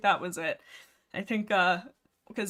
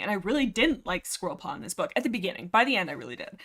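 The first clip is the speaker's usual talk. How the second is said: breathless, stressed talking; out of breath from nerves; faster than usual. Real, not acted. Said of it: "I'm out of breath 'cause I'm all stressed out".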